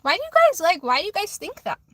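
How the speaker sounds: exasperated. Real, not acted. Exasperated at viewers.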